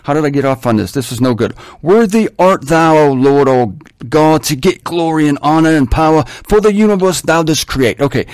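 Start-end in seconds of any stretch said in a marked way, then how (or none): 1.8-8.0 put-on English accent. Preacher quoting the elders' song, English accent. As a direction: declaim it like an English film actor. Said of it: "they might have had an English accent".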